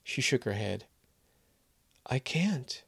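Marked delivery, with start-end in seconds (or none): 2.0-2.8 a hushed, breathy no; whispered refusal. Acted. Maria whispering her refusal to Kevin. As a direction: whisper it, barely there.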